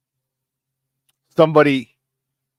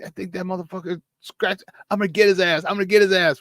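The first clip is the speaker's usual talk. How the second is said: mildly voiced angry teammate, pitched up; understated retold anger, higher voice; retold angry cursing; 4 semitones higher than usual. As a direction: imitate a fuming player vowing payback. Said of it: "never seen Ike that pissed".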